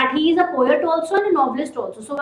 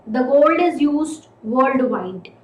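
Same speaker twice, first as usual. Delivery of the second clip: slow, weighted "the gold is used worldwide"; stress on the gold; slower than usual. Shown as a demonstration. Teacher stressing "the gold" for the class. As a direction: lean on "the gold" to emphasize it. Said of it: "if I want to place emphasis on gold".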